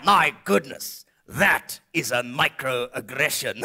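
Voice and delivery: mock-offended retort, drawn out; prim outrage. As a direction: play it prim and scandalised, slowly.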